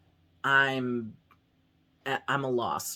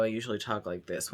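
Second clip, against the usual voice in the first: quick, softly lowered everyday voice; off-camera voice; 3 semitones lower, 4 dB quieter, faster than usual. Shown as a demonstration. Vlogger showing the voice used off camera, lower everyday voice. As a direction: say it low and casual, a touch quieter. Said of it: "when I'm not doing a video".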